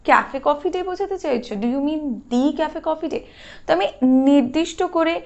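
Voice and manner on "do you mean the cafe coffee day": "the" stressed with a long ee; slow, pointed question leaning on "the" as dee; emphatic "the" as dee. Shown as a demonstration. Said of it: "এরকম আমি জোর দিয়ে বলছি".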